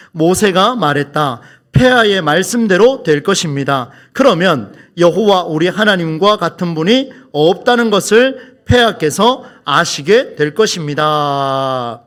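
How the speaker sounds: measured, deliberate verse reading; scripture reading aloud. Acted. Preacher reading verse ten with the congregation, measured recitation. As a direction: lead the congregation through it, drawing out the final words.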